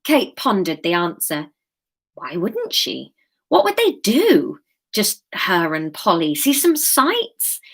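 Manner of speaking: measured live chapter reading; story narration. A narrator's reading. Author reads her chapter to live listeners, story narration.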